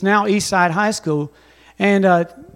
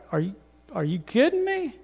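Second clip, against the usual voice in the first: disbelief; 9 dB quieter than usual. Retold or imitated. Quoting our reaction to God.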